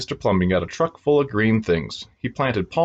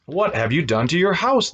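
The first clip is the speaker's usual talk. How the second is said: mock shout; 8 semitones higher than usual. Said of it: "they shouted at the man".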